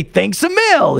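high, lilting mock Irish; imitated Irish locals. Teller quoting Dublin locals, mock Irish accent. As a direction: put on a cheery Irish accent. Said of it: "And they all say".

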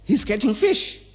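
high-pitched, talking through laughter; amused laughing. Real, not acted. Speaker admiring a master psychologist, amused and laughing. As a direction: marvel at it while laughing.

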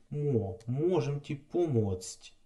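"можем ті помоць" slowed down; slow Slovak phrase. Shown as a demonstration. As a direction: model "можем ті помоць" carefully.

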